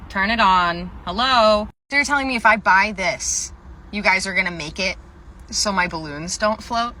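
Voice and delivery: loud, worked-up challenge; loud mock indignation; exasperated customer. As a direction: argue loudly, incredulous. Acted exasperated customer arguing with employee.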